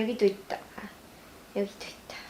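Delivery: soft whisper; breathy hushed aside. Real, not acted. Whispering while baby eats.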